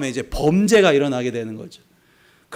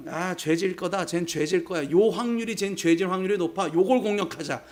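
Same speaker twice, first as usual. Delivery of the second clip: softer, plotting voice of the wicked; scheming tempters; 4 dB quieter than usual. Retold or imitated. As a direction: conspire quietly against the believer.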